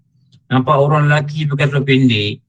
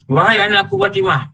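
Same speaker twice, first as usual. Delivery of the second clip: tender address; 8 semitones higher than usual. Acted. Voices the Prophet addressing Fatimah.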